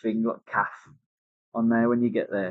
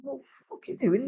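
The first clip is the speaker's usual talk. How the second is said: retold angry retort; 12 semitones higher, 6 dB quieter than usual. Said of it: "I'm like".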